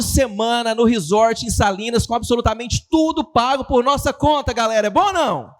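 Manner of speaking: lively, rising sales-convention hype; enthusiastic announcement. Shown as a demonstration. Speaker showing how the owner should have announced the prize, enthusiastic. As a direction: sell the prize with energy. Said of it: "O erro é do comunicador".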